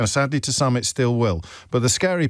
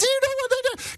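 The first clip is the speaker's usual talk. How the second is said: very high-pitched put-on voice, raised an octave. Asking George if the voice is high enough, then going up more: very high-pitched voice. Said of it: "I'll go up one more".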